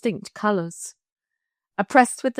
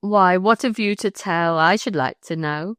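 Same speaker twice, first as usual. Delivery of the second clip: rustic wife's pointed question; countryman's wife, quoted. Retold or imitated. Countryman quotes his wife questioning him, rustic and pointed. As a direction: demand it as a countrywoman would. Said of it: "Just like that".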